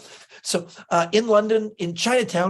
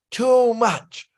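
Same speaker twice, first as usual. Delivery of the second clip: "Too much" punched up high and loud; emphatic; 5 semitones higher, 5 dB louder than usual. Real, not acted. Joking about Hamilton ticket prices, emphatic too much. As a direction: lean hard on "Too much".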